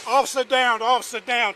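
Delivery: officer down shout. Real, not acted. Radio call after shooting.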